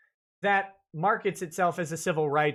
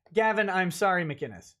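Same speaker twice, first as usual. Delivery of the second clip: put-on joking take on a Canadian accent; apologetic mock-Canadian accent, dropping away on the surname. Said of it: "That's the Canadian accent".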